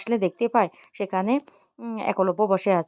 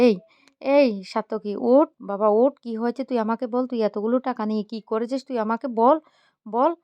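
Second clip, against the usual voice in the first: urgent raised plea; 3 semitones higher, 4 dB louder than usual. Acted. Mother urges crying son.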